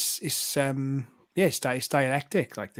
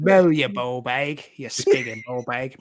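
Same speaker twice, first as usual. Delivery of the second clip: London cow voice. Pretend. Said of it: "In London, he was".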